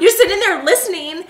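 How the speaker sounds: laughing while talking. Real, not acted. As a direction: talk through a laugh.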